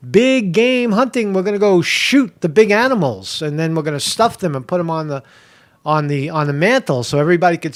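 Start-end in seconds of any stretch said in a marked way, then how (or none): 0.1-3.4 mock eager. Shown as a demonstration. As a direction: savour "Big game hunting" like an eager hunter.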